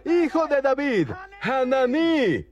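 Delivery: grito imitado muy agudo, con la última palabra alargada; clamor más fuerte imitado. Retold or imitated. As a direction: imita a un mendigo que clama con insistencia. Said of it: "él gritaba aún más fuerte". (imitando un grito agudo e insistente)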